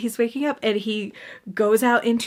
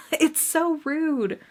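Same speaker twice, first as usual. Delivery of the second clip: laughing disbelief; 6 semitones higher, much slower than usual. Real, not acted. Laughing exasperation.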